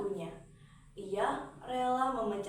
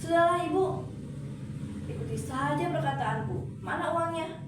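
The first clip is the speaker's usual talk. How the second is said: bossy snap; 6 semitones higher than usual. Acted. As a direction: cut her mother off sharply. Daughter bossing her mother.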